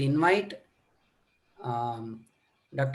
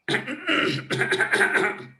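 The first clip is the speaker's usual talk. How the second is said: settled cough; 6 semitones higher than usual. Shown as a demonstration. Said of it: "it is settled".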